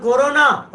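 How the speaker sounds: slow, deliberate कोरोना; word division shown. Shown as a demonstration. Teacher showing three small words inside one, slow split कोरोना. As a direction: sound out कोरोना slowly in its parts. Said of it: "तीन शब्द हैं".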